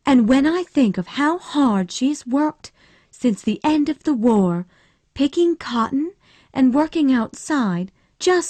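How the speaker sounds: a touch of an impassioned, gentle wife; lightly voiced pleading Melanie. A narrator's reading. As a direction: Melanie urging her husband to help Scarlett.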